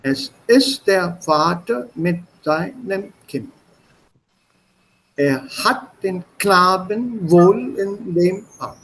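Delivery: slow, rising and falling recital of Erlkönig; teacher reciting Erlkönig to show rise and fall; rhythmic poem reading. Shown as a demonstration. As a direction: read it with a galloping lilt. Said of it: "So this is a rise and fall".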